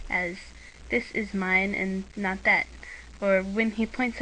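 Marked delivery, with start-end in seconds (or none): 0.9-2.7 slow, with "that" set off firmly; contrastive emphasis. Shown as a demonstration. Narrator shows the emphasis of ga, stressing that. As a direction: stress "This is mine and not that", hitting "that". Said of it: "wishes to put a particular emphasis on the subject".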